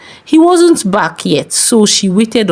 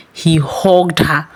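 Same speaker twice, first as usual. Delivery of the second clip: hushed; 4 semitones lower, much slower than usual. A narrator's reading. Tense narration of unwanted hug.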